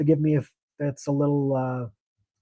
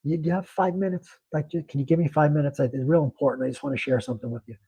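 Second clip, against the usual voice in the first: softer, gentle plea that it really matters; sincere and earnest; 5 dB quieter than usual. Shown as a demonstration. Banker showing how to win a customer's five minutes, soft and sincere. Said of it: "You're saying it like".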